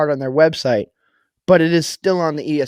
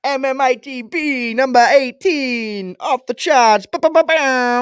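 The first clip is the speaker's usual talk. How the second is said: announcer intro; 8 semitones higher, 3 dB louder, slower than usual. Acted. Podcast intro shout, sung jingle.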